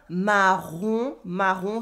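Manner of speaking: "marron" with a back-of-throat R, rising at the end; French R. Shown as a demonstration. Teacher showing learners the French R, throaty R. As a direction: sound out "marron", throaty R and rounded nasal "on". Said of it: "the French R that you can hear".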